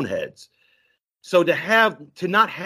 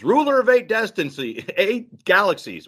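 higher pompous proclamation, lightly done; alien announcing; 6 semitones higher than usual. Retold or imitated. Retelling the alien's call back home, mock grand. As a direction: hail the king with mock grandeur.

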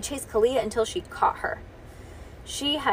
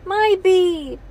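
put-on high, loud toddler claim; possessive toddler; 9 semitones higher, 8 dB louder than usual. A narrator's reading. Toddler running to Bean, loud possessive cry. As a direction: claim her like a clingy toddler.

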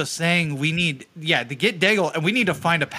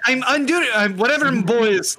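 mild mock yell, pitched up; Daigle; 5 semitones higher, slower than usual. Player retelling the prisoner's shouts, mild mock yell. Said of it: "he's sitting there screaming at us".

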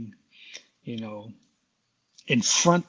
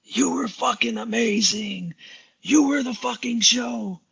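higher, slow, booming impression of a half-deaf drummer; a drummer's voice; 10 semitones higher, slower than usual. A drummer praising Mark backstage in a booming high voice. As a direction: boom it out like a hard-of-hearing rock drummer. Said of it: "I'm gonna do it in the voice of a drummer".

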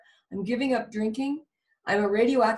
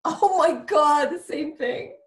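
amazed; 7 semitones higher, 5 dB louder, slower than usual. Real, not acted. Reacting to identical childhood story.

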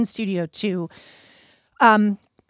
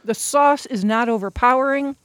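chewing while talking; words around a bite of food; mouth full; 3 semitones higher than usual. Real, not acted. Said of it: "talking with food in my mouth".

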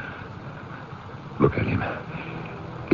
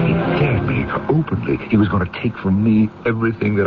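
rising intensity; 3 semitones higher, much faster than usual. Acted.

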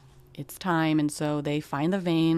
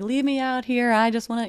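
higher, pleading cry over the grave; retold raw pleading, pitched higher; anguished plea; 7 semitones higher, 5 dB louder than usual. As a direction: beg to be left there, in grief. Lying on grave at midnight.

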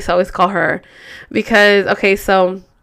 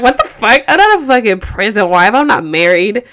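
mock indignant retort, louder at first; retold indignation; 4 dB louder than usual. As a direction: imitate an offended friend protesting.

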